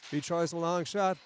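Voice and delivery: lively hockey play-by-play call. Acted. Hockey announcer following the puck for listeners, live play-by-play. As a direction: call the rush as it unfolds, pausing between plays.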